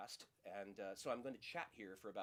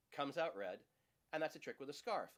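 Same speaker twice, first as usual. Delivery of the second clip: magician patter; 4 semitones higher, 3 dB louder than usual. Acted. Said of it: "Patrick Page's routine with his patter".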